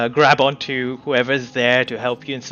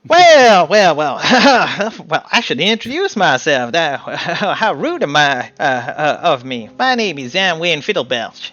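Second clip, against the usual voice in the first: giggly little gnome; 4 semitones higher, 6 dB louder than usual. Acted. Gnome introducing himself to the party, giggly. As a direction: introduce yourself with nervous giggles.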